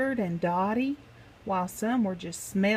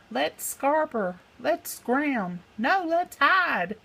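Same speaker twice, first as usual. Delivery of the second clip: panicky pirate; 6 semitones higher than usual. Acted. The chief panicking about where to run, much higher. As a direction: squeal it out in a blind panic. Frightened pirates plan to flee.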